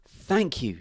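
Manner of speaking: grateful dove's gentle coo; cooing thanks. A narrator's reading. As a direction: coo it to a little friend. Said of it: "she cooed to the ant".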